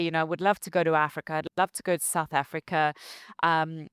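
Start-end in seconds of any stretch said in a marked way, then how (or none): 0.2-2.9 quoting people rushed. Retold or imitated. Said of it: "people would obviously say".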